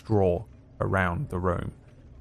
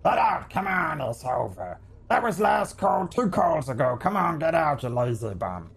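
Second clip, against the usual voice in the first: shouting barkeep; 7 semitones higher than usual. Acted. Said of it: "is shouting across the bar".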